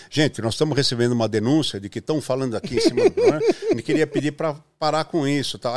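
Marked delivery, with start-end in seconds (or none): 0.1-3.4 announcer voice. Retold or imitated. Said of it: "abria o microfone".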